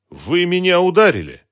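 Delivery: high, loud indignant exclamation; shocked outcry. Acted. Woman just slapped by her protector, shocked high outcry. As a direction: exclaim in stunned disbelief.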